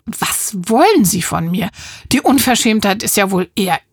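sharp, indignant retort; indignant call. Acted. Neighbour rejecting Mappa's reproach, indignant call. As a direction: throw the accusation back at them. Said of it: "ruft Frau Kartuschke".

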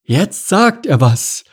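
high, slow ostrich announcement; Stanislav. A narrator's reading. Ostrich talking over the king, high-voiced. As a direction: report dutifully in a high bird voice.

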